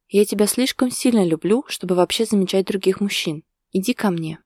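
ordinary talk, nothing marked

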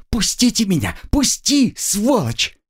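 high, rising angry yells; struggling girl, high, angry cries; furious struggle. Acted. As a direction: scream at her captor.

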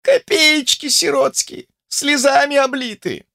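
high, slow, grumbling crone voice; displeased old woman. A narrator's reading. Grandmother to Olesya, displeased high grumble.

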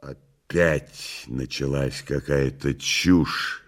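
low, slow, dry remark; weary disapproval. Acted. Woland interrupting the cat's nonsense, low dry voice.

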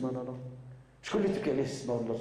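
usual speaking voice

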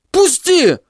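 высокий мальчишеский вой; вырывайся с воем; воет. Acted. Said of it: "уже не вопил, а выл он". (Тедди воет, вырываясь)

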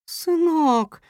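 high, bright cry of recognition; mother cat recognising her grown son, exclaiming; joyful exclamation. A narrator's reading. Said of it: "воскликнула мама-кошка".

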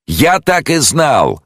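high, slow bellow at full voice; bawling. A narrator's reading. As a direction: jeweller yelling in outrage. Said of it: "горланил ювелир, что было сил".

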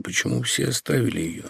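strained voice. Acted. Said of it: "проговорил сдавленным голосом".

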